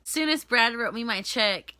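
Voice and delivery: ordinary talk, nothing marked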